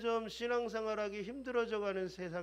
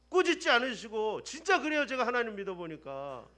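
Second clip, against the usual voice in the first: ordinary talk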